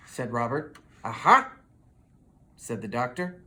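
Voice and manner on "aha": triumphant aha, a bit louder; the doctor's found it; knowing little aha; aha discovery. Acted.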